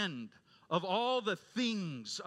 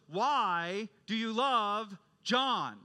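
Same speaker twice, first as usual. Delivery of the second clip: slow, higher, WHY, LOVE and JOHN each punched; insistent question; 5 semitones higher, 4 dB louder, much slower than usual. Retold or imitated. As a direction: press "Why do you love John" word by word. Professor presses the flustered student.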